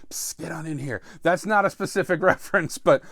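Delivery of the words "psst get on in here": furtive beckoning. Acted. Q calls Bond into the hidden lab, furtive beckoning. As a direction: beckon someone over on the quiet. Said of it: "Q's like".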